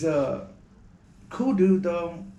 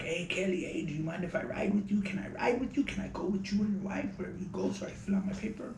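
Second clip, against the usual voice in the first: lightly voiced high-pitched impression; a hint of his eccentric voice, pitched up; Moody's high tone; 6 semitones higher, 4 dB quieter than usual. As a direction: plead for a ride in a raised voice. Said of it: "And a very high tone".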